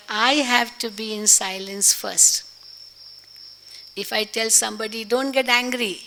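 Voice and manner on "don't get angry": quick, raised angry protest. Retold or imitated. Speaker to angry person, a quick, raised angry protest. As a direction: scold them for being angry, fast. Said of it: "But I'm saying in an angry tone".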